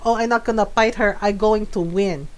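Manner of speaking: imitating mom's unruffled confidence; matter-of-fact mock-mom delivery; calm imitated mom. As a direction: state it calmly, as mom did. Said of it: "she so calmly said it".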